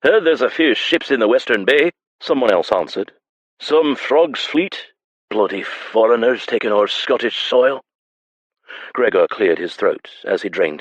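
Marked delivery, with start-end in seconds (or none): 0.0-7.8 scornful tavern man. A narrator's reading. Tavern man sneers at foreigners.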